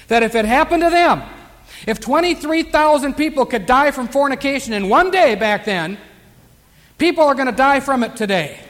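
preacher pressing each point hard; emphatic preaching. Real, not acted. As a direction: drive the warning home to the congregation. Preaches warning of judgment.

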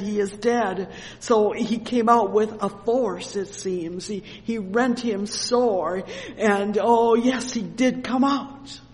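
loud, emphatic revival sermon; full-force preaching. Real, not acted. Preacher retells the spirit coming out, full-force preaching. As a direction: drive the scripture home loudly.

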